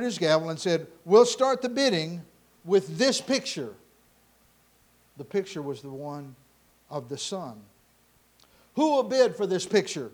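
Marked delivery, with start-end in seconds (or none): 1.0-3.8 lightly voiced auctioneer, louder and lifted; auctioneer's call. Auctioneer to the crowd as the sale opens, calling out. Acted auctioneer opening the bidding. 8.8-10.1 lightly acted auctioneer, projected; auctioneer's call. Auctioneer asking the crowd for a first bid, calling out.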